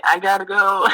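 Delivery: hurried escape. Retold or imitated. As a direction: get out of there fast. Fleeing the dad.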